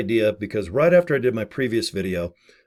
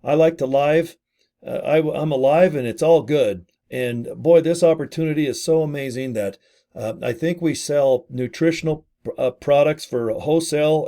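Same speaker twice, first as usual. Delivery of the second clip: awkward presenter voice; 3 semitones higher, 3 dB louder than usual. Retold or imitated. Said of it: "when you hit record, you're gonna go".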